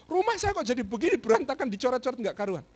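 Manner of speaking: high-pitched imitated scolding; angry landlord. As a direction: mimic an owner outraged at the mess. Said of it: "marah-marahlah dia".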